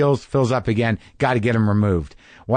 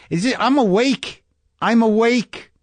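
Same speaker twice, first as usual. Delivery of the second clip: protesting I'm awake; 9 semitones higher than usual. Retold or imitated. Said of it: "And I'm like".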